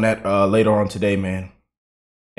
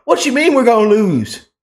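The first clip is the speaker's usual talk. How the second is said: higher, hammed-up protesting voice; mock indignant Democrat; 9 semitones higher than usual. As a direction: push back like an offended insider. Second voice in the skit.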